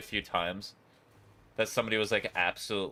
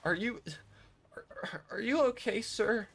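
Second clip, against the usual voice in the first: incredulous; 12 semitones higher, slower than usual. Retold or imitated. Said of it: "And I was like".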